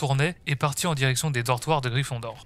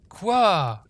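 high, louder questioning "quoi"; startled what; 6 semitones higher, 4 dB louder than usual. A narrator's reading. Ginny to a smiling Neville, startled. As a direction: pitch it up in acted surprise.

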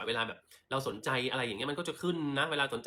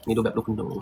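put-on posh rich girl; 8 dB louder than usual. Shown as a demonstration.

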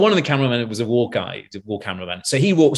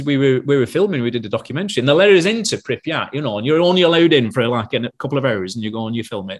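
lightly imitated Lancashire sound man; Lancashire accent. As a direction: slip into a mild Lancashire accent. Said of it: "Hope you can understand my Lancashire accent".

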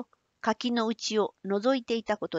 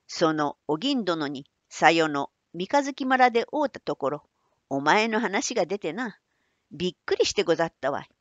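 put-on old man voice. Manbei relates message.

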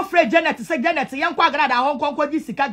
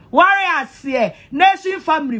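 shouted call; 3 semitones higher than usual. Real, not acted.

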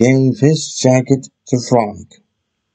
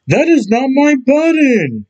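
higher, upset protest; a hint of a distressed cry; 12 semitones higher than usual. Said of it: "cried Toad".

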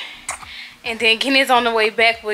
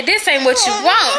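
laughing mock warning; 7 semitones higher, 3 dB louder than usual.

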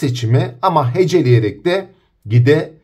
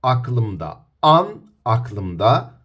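slow demo; 2 semitones lower, much slower than usual. Shown as a demonstration. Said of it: "Adım adım gidelim".

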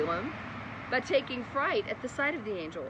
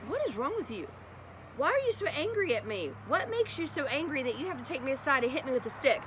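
hurt donkey; 6 semitones higher than usual. Acted. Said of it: "the donkey turned around and said".

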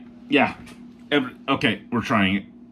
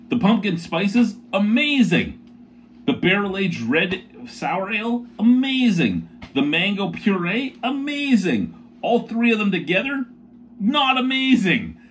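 emphatic build; 8 semitones higher than usual. Acted. Praising each beer ingredient then the combination, emphatic build. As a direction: build up the praise and drop it at the end. Listing each part as amazing.

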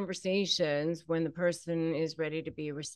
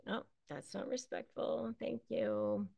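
much softer, calm, unbothered; calm and quiet; 3 semitones higher, 11 dB quieter than usual. Shown as a demonstration. Replying calmly to the narcissist's protest, quiet. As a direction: say it softly and let it go. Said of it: "you just say".

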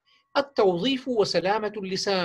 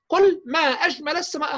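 teacher model phrase; 6 semitones higher than usual. Shown as a demonstration. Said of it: "فقط هكذا".

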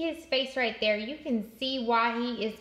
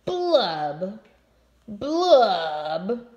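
sulky blub blub, falling low; fish blubbing; 5 semitones lower, 5 dB louder, much slower than usual. Acted. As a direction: bubble out each blub like a sad fish. Fish blubs.

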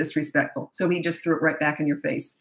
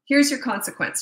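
calm, matter-of-fact; 6 semitones higher, 3 dB louder than usual. Shown as a demonstration.

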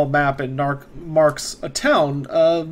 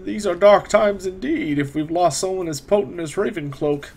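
raised, unhurried scholarly wizard; 3 semitones higher than usual. Acted. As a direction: speak as a courteous old mage. GM voices the wizard Otto.

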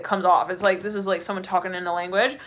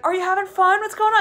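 curious crowd; 10 semitones higher than usual. Retold or imitated. Voicing everybody asking the spirit.

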